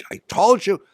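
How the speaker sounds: high, loud I told you; a partner crowing about the gold rising, high and loud; gloating. Retold or imitated. Lenny gloating the next day.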